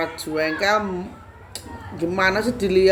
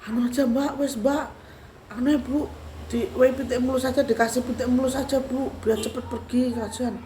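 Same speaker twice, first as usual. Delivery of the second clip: higher-pitched pleading onlooker; orang membujuk; 7 semitones higher than usual. Retold or imitated. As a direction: coax them to give in, voice lifted. (membujuk dengan suara lebih tinggi)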